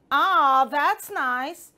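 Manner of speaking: loud, pleased frog voice. Acted. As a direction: boom it out like a big-mouthed frog. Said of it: "Very loudly, the frog said".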